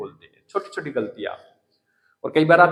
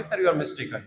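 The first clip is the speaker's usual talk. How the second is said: slow dictation demo; much slower than usual. Shown as a demonstration. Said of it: "क्या बोलोगे".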